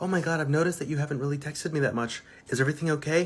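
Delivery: put-on girl's voice. Acting out a typical conversation with a guy: acting out a girl asking him. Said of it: "Conversation usually goes like this".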